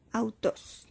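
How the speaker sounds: "autos" with a Spanish u gliding after the a; ípsilon as Spanish U. Shown as a demonstration. Teacher modelling a Greek diphthong for students, Spanish U. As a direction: say "autos" with u as in Spanish, not French. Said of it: "se va a leer como nuestra U española".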